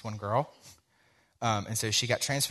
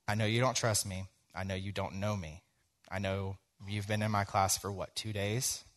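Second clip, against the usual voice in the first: mildly soft, understated coaxing; gentle reassurance; 5 dB quieter than usual. Retold or imitated. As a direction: retell it quietly, trying to earn trust. Teacher gently coaxing distressed student.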